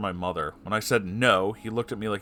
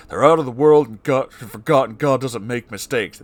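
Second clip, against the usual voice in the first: mocking repeat; 3 semitones higher, 9 dB louder than usual. Mocking stepfather's words before ranting.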